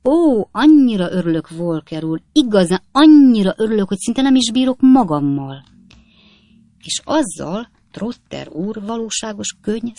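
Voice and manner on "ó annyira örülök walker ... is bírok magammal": gushing delight. A narrator's reading. Trotter gushes fake joy.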